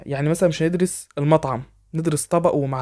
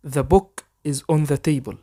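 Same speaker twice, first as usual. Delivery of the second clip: very slow, careful English for learners to copy; slow dictation pace; slow model sentence; much slower than usual. Shown as a demonstration. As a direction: spell it out slowly so students can repeat. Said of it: "حاول تقلدني".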